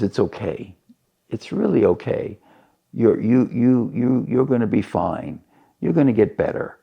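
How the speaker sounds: lightly acted soothing parent; comforting father. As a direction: gently reassure a disappointed child. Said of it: "gives him a big hug".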